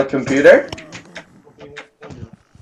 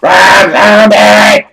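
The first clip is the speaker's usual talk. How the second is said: drawn-out loud cheer; excited shout; 4 semitones higher, 6 dB louder, much slower than usual. Real, not acted. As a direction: stretch the name out, hyped. Excited name call.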